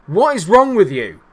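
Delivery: loud, high exasperated yell at the team; real furious outburst; angry. Real, not acted. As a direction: shout your frustration at the players. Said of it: "I'm so angry".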